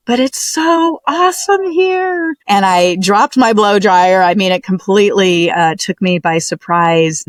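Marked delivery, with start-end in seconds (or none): 0.1-2.3 husband's voice. Retold or imitated. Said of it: "Ian's voice was clear as day".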